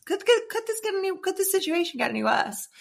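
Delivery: high, stammered mock panic; retold panic. Woman signed off work dreading everyone knowing, retold panic. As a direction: pitch shoots up in acted disbelief.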